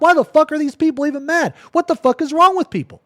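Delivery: high, loud, fed-up disbelief; exasperated outburst. Retold or imitated. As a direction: throw up your hands at everyone. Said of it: "I'm like".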